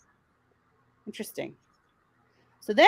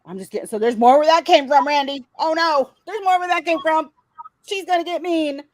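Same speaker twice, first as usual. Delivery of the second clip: higher, louder sing-song mock threat; mocking menace; 5 semitones higher, 5 dB louder than usual. Host mocking the threats, hammed-up and high. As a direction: ham up the villain's threat.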